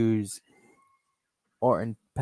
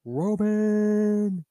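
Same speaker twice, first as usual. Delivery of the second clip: ring announcer; 2 semitones higher, much slower than usual. Acted. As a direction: announce the winner to the arena. Ring announcer declares winner.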